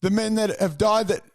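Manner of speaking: mock indignant online commenter voice; whiny commenter. Mocking a commenter complaining on a memorial page. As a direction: whine it like an aggrieved stranger. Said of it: "and then someone else going".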